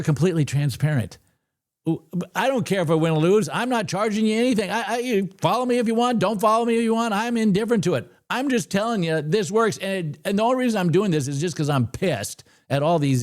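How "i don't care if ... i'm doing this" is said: higher-pitched heated rant; a heated rant against the gurus. Real, not acted. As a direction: get worked up and preachy. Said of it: "enough of my screaming".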